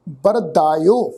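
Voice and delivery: ਬਰਦਾਇਓ slow and low, as "bar-daa-yo"; pronunciation demo. Shown as a demonstration. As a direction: draw out ਬਰਦਾਇਓ with a long "daa". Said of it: "ਪਾਠ ਉਚਾਰਨ ਕਰਾਂਗੇ".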